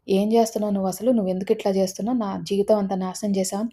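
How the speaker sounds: quick, understated telling-off; girl berating the old woman, fast and lightly angry; fast angry scolding. Acted. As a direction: rattle off a lightly acted rebuke. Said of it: "తిట్టింది ముసలవ్వని".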